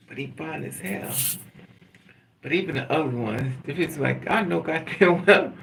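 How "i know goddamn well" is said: loud, indignant telling-off; mock outrage. Scolding the ugly man who hurt you, loud mock outrage. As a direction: blast him in comic disbelief.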